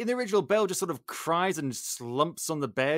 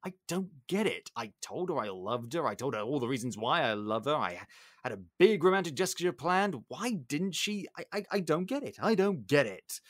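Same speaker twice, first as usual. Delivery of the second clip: baffled, stewing grumble; mildly worked-up, bewildered complaint. Retold or imitated. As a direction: imitate a rejected suitor stewing to himself. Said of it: "He's clearly stewing and steaming".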